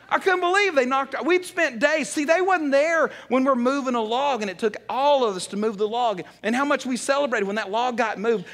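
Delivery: high-pitched, worked-up retelling; retold indignation. Preacher reliving friends scorning his fort, indignant.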